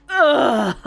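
loud, drawn-out "ugh"; groggy waking groan. Acted. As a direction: groan like waking from far too much sleep. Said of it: "That's how you wake up".

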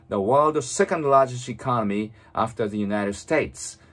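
very slow, fully articulated English reading; read-aloud model. Shown as a demonstration. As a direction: move the lips fully, reading slowly for shadowing. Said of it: "本当に大きな声で唇を思いっきり動かして". (口を大きく動かしてゆっくり音読)

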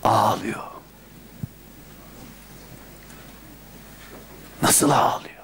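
hushed whisper, overcome; moved whisper. Real, not acted. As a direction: whisper it as if holding back tears. Describing the woman's weeping. (duygulu fısıltı)

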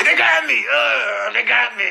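high, pained little "They got me."; mock wounded whimper. Retelling a bloodied guy, high mock whimper. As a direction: imitate a beaten man moaning "They got me". Imitating the beaten man.

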